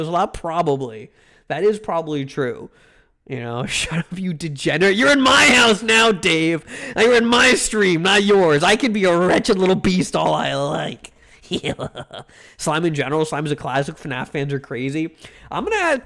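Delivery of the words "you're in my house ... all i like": mock scolding. Mock-scolding chatter Dave.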